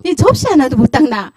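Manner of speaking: mocking a parent's scolding over spilled spoons; imitated scolding parent. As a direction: bark it like a fed-up parent. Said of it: "접시 깼어요".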